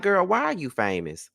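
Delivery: high, scornful rant at someone who won't go away; exasperated sass. Retold or imitated. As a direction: roll your eyes and demand she disappear. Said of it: "Because I'm like".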